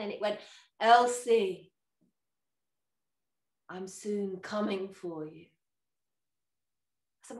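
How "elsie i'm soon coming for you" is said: louder, drawn-out name call; mysterious voice. Retold or imitated. The devil calls to the dozing old woman, eerie call. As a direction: call her name like a ghostly visitor. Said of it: "the voice came again".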